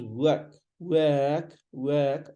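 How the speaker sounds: "work" slightly drawn out, no r; stretched vowel. Shown as a demonstration. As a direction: work a bit long, as wuhhk. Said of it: "a bit stretched".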